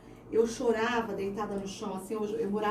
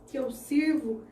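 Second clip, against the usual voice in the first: fervent retold vow; 4 semitones higher than usual. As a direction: pour your whole heart into the promise. Passionate retold vow to God.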